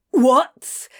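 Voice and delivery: high squawk; soprano squawk. Acted. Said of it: "Crowley squawked in soprano".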